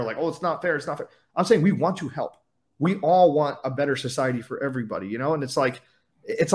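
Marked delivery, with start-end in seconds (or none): 0.2-1.1 a light mocking whine that fades to soft at the end; mock complaining whine. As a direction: parody a whiner without much push. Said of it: "I'm not complaining saying it's not fair".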